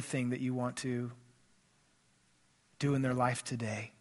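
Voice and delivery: earnest unhurried prayer with long pauses; pastoral prayer. Acted. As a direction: pray over the congregation, lingering between phrases. Pastor leads closing prayer.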